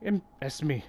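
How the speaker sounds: lightly voiced game character; a hint of a character voice; npc voice. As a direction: read the line as a gruff wanderer. Reading NPC dialogue aloud.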